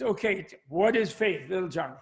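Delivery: lightly Southern preacher; American Southern accent. Acted. Preacher questioning the front-row boy, lightly Southern accent. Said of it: "going into an American Southern accent".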